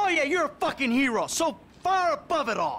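fast, high-pitched scornful retort; angry sarcasm. Acted. Calling the accusing friend a hero, scornful. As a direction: throw mock praise back at him. Acted quarrel, mocking the accuser.

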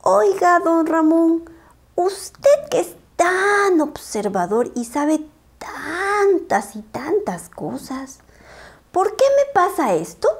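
high, distressed pleading puppy; anguished. Acted. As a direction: beg for help, close to tears. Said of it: "muy angustiado".

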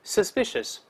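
"suspicious" with stress on -spi-; model reading. Shown as a demonstration. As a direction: read "suspicious" clearly for the class. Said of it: "我们大声来念". (示范朗读suspicious，重音在第二音节)

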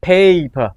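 PAPER said slowly with a long "ay"; long vowel paper. Shown as a demonstration. Teacher blending syllables for students, slow long-vowel "paper". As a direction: draw out the first syllable of paper. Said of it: "ออกรวมกันจะเป็น paper".

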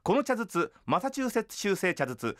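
crisp, careful model reading of the tongue twister. Shown as a demonstration. Senior voice actor demonstrating the tongue twister, crisp and clear. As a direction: show them how it's done, clean and even. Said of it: "お手本となる早口言葉をまずお聞かせします".

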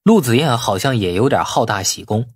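ordinary delivery

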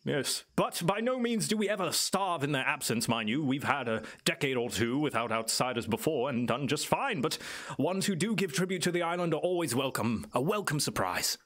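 lightly voiced island native, musing and lilting; knowing island elder. Island native tells visitors about the guardian, musing and lightly in character. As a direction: explain it as a well-spoken local guide. Game master plays Clyde.

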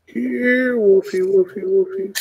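high, singsong coaxing call; calling a pet. Pretend. Player luring a game wolf over, high coaxing call.

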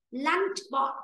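"lunch spot" with a t closing spot; clear final t. Shown as a demonstration. Teacher repeats for student, "spot" with final t. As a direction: model "spot" ending in t, not k. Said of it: "chứ phải bốc đâu".

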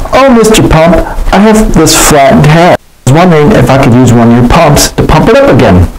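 high, hopeful plane voice. Acted. J J asks Mister Pumple.

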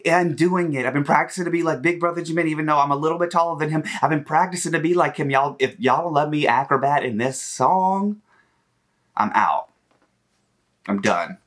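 a light mock of a pouty maknae; voicing a singer. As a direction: plead like the youngest wanting his turn. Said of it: "he said".

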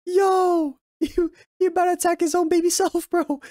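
hyped yell at the screen; excited outburst. Real, not acted. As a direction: call out the scene, fired up. Excited reaction to anime scene.

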